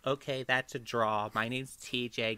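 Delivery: hint of a mock host calling it, slowed down; imitating TJ. Voicing host TJ's imagined words.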